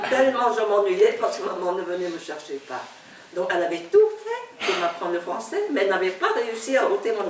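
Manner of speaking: chuckling while she tells it; laughing. Real, not acted. To the interviewer about reading the whole library, laughing. Laughs at her lonely childhood.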